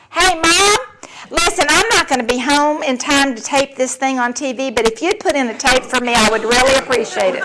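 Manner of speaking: imitating a chirpy, casual teen on the phone; breezy, oblivious. Missing daughter phoning mom, as if nothing happened. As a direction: toss it off high and carefree. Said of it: "As if nothing had happened".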